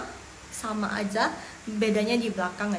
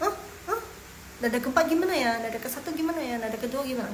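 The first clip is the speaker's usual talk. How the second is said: stumbling student; faster than usual. Pretend. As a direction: act lost while trying to read. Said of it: "Tapi pas baca".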